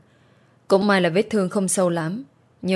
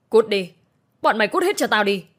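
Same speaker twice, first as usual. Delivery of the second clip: angry shout; 3 semitones higher than usual. Acted. Mother-in-law throws them out.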